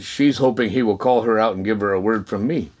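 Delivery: low, even voice from above; understated, calm divine prompting; lightly voiced God. God tells him about the woman, lightly voiced low and calm.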